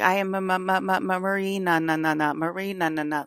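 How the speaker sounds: mildly glitching, repeating like a broken machine; glitching stutter. Retold or imitated. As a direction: stutter the name like a fan resetting. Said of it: "creepy as fuck".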